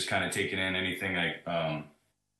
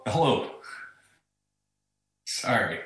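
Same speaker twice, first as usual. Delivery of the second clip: on speakerphone; 4 semitones higher, 7 dB louder than usual. Real, not acted. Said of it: "It sounds like you're using speakerphone".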